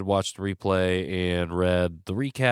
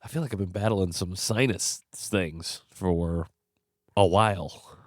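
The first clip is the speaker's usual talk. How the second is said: stuffy nose. Real, not acted. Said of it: "I am a little stuffed up still".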